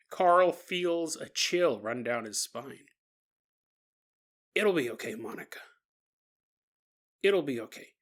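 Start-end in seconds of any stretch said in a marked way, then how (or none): 4.5-7.9 low-key, gentle comfort; quiet, subdued reassurance; reassuring father. Acted. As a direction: softly soothe a frightened child. Father soothes frightened daughter.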